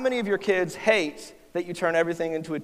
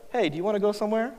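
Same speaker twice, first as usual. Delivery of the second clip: eager carefree offer; 3 semitones higher, faster than usual. Retold or imitated. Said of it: "I could look at my wife and be like".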